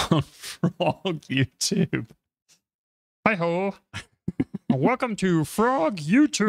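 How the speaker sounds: high, cheery puppet frog. Acted. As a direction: greet viewers like a cartoon frog. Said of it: "just so you would do the frog voices tonight".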